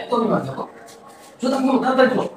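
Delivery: gentle hushed pleading; soft coaxing. Real, not acted. Mother softly urging her child to take off his shoes.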